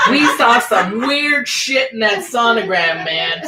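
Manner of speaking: slow, laughing through it. Real, not acted. Friend cracking up at her own joke, laughing. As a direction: giggle the joke out slowly.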